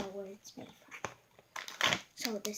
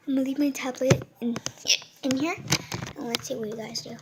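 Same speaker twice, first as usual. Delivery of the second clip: whispering; 4 dB louder than usual. Real, not acted. Whispering to camera.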